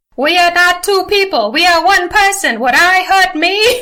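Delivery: put-on patrician New England accent. Reading aloud a favorite line of a character, in a Kennedy-esque voice. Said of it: "read it in like a Kennedy-esque voice".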